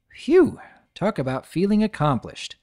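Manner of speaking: high relieved phew; proud little dragon; breathless and pleased; Spike voice. Acted. Spike proud after sending.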